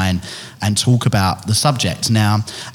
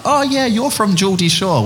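mocking caller voice; 11 semitones higher than usual. Quoting callers mistaking her accent.

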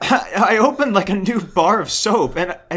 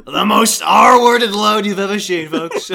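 Trump impression; 4 dB louder, slower than usual. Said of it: "My Trump impression".

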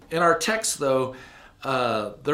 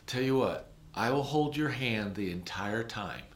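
softer and kind, a quiet promise; tender promise; 2 semitones lower, 6 dB quieter than usual. Retold or imitated. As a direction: reassure him softly, you'll hold his hand. Promising the crying child.

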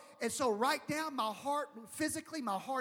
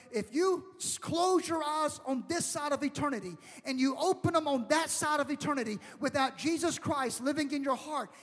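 urgent preaching; 3 dB louder than usual. Real, not acted. Preaches a warning of eternity.

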